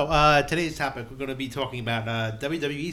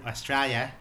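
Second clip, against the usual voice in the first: put-on awful Australian accent; slower than usual. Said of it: "my awful impersonation of an Australian".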